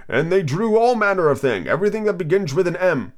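woozy storytelling creature; sleepy Dormouse. Acted. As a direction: slur the tale drowsily. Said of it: "very sleepy".

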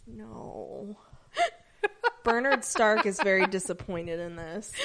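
mock sobbing disappointment; fake-cry the complaint. Mock despair over sign-off.

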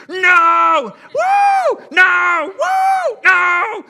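loud, high alternating shouts; dueling fans. Retold or imitated. Pastor mimics rival fans in sports bar, shouting. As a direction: yell no and woo back and forth.

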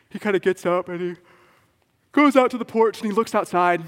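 rising suspense. A narrator's reading. Building suspense in the story.

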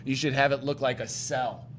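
slow, dry mock agreement; a drawn-out, mocking "sure it is"; sarcastic. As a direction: lay the sarcasm on slowly. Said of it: "and I'm like".

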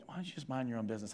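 soft, fast, sly hushed voice; evil one's whisper. Retold or imitated. The evil one whispering to a believer, sly and hushed. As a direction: murmur it quickly like a tempter. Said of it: "little whispers from the evil one".

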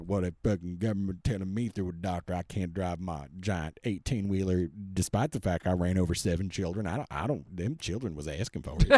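mock a Southern redneck ranting; hammed-up Southern accent. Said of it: "I don't know why I'm talking in a southern accent".

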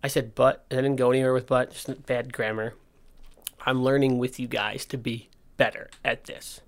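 talking without front teeth; slight lisp from missing teeth. Real, not acted. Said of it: "you might notice I don't have any front teeth".

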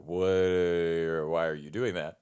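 imitating a baffled, drawn-out reaction; baffled director. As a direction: stretch the word out in puzzled disbelief. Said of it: "And he's like".

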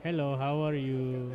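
put-on Indian accent. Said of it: "Oh, can you do one?".

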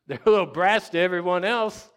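loud, high, amused burst; laughing exclamation. Real, not acted. Preacher teases parents about their kids, laughing loudly. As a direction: call it out through a laugh.

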